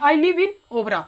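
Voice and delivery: "live" with a short "i"; short sound. Shown as a demonstration. Teacher gives a sentence example, "live" with short "i". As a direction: keep the vowel in "live" quick. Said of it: "short में बोलते हैं".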